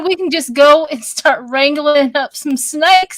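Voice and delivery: Texan accent. Shown as a demonstration. Showing friends she can go Texan, Southern accent. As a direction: lay on a down-home Texan accent. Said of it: "we all can go Texan".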